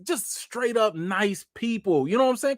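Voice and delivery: ordinary delivery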